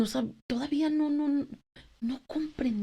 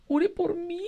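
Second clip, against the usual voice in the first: pleading; 6 semitones higher, slower than usual. Retold or imitated. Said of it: "le decía yo".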